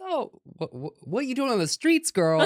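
mock shock. Real, not acted.

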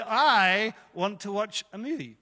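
slow, reluctant admission; whiny prayer. Retold or imitated. Pastor retells his lazy prayer in the car, slow and sulky. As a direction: drag the words out like a sulky child. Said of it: "I said".

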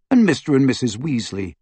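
ordinary delivery

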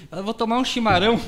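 lightly imitated paulista accent, chimarão with a single tap r; São Paulo accent. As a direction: mimic a paulista saying chimarão. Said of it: "naquele sotaque dele".

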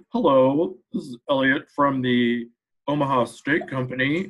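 lightly put-on fake business caller; Elliot's changed voice. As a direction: imitate a colleague disguising his voice for a prank call. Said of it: "He would change his voice".

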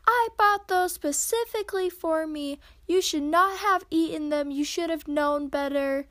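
imitating an angry roommate, starting loud and cooling down; retold scolding. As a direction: play the angry roommate, easing off toward the end. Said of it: "they start yelling at you and screaming at you".

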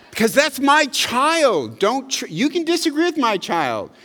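a father's loud, protective declaration; protective outburst. Real, not acted.

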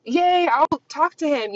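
high, giddy imitation of her younger self; mock the girl who said yes to anyone; airheaded old self. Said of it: "I used to just be like".

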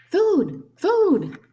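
loud, high hungry peep; piercingly high little chick cry; tiny gosling voice. A narrator's reading. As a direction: demand it like a hungry baby bird. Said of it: "That tiny voice".

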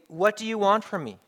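lightly acted indignant protest; defensive comeback. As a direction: throw the question back defensively. Defensive line acted once more.

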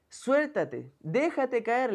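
a father shouting to his son in the smoke. Acted. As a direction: yell up to the boy to let go. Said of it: "le gritaba el papá".

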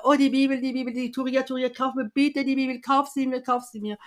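high, excited rush of begging; euphoric pleading. Retold or imitated. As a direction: re-enact giddy, eager pleading. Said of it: "Damals war ich so euphorisch".

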